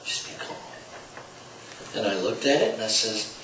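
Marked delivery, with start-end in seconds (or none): 0.0-0.5 soft whispered advice; hushed cool-headed reminder; Patrick Swayze quote. Retold or imitated. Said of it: "What did Patrick Swayze say?".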